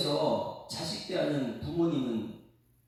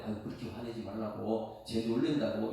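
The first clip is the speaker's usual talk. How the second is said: soothing mother; 7 semitones lower, 4 dB quieter than usual. Retold or imitated. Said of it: "이게 엄마예요".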